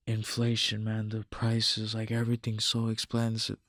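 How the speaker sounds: half-hearted mimicked griping; mock complaining. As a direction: imitate someone moaning, dragging it out. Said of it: "bitching, moaning, and complaining like".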